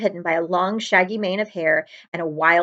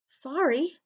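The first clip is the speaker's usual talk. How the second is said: higher, softer hurried sorry; quick apology; 7 semitones higher, 5 dB quieter than usual. Acted. Harry quickly apologises to Hagrid, higher and soft. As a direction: rush out an apology. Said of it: "Harry said quickly".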